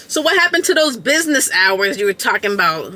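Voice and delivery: sarcastic jab. Retold or imitated.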